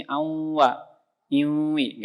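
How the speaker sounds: awwa and iwi pushed into the nose; wrongly nasal iwi, sound in the nasal cavity; nasal mistake. Shown as a demonstration. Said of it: "masuk ke sini".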